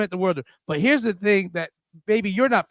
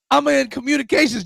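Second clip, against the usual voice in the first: mock shouted answer; 4 semitones higher than usual. Son telling his army father his job, mock shouted. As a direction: blurt it out like a proud recruit.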